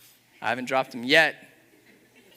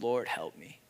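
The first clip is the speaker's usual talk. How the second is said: quoted prayer. Retold or imitated. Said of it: "it brings me to this place of".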